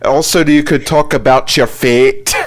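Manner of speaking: explaining in a put-on Scottish accent. Shown as a demonstration. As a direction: keep up the Scottish accent while coaching.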